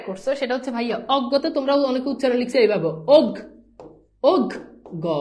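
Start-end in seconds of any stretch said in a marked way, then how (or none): 3.2-5.1 অগ, split with a plain g sound, the mistaken way; wrong way, অগ. Shown as a demonstration. Teacher shows students the mistake they make, mock wrong pronunciation. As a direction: show the students' wrong reading অগ. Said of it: "না রে ভাই, এভাবে হবে না".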